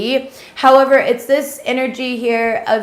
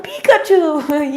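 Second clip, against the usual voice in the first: slow, higher, dim-witted parroting of the word; mocking a copycat who just echoes; dopey echo; 6 semitones higher, slower than usual. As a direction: repeat "Pikachu" back like a clueless parrot, drawn out and pitched up. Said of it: "they're like".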